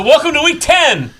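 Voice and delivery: laughing. Real, not acted. Host restarts show, laughing.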